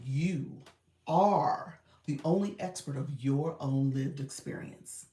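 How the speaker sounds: slow, weighty line with stress on You; theatrical voice acting. Shown as a demonstration. Reading a commenter's line as overdone voice acting. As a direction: deliver it like a dramatic voiceover, leaning on You. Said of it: "let me say it in a voice acting".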